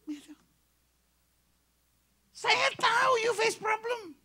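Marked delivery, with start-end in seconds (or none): 2.3-4.2 drawn-out emphatic call. Acted. Preacher emphatic.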